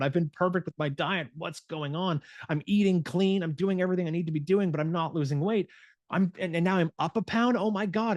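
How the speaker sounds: mock freaking out. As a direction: spiral into panic over the scale. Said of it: "You start freaking out".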